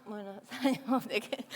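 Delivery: playing dumb. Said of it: "me hago la loca".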